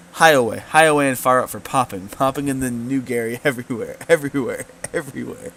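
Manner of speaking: loud, giddy goblin voice; excited goblin. Acted. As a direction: blurt it out like a thrilled goblin. Goblin excitedly describes popping.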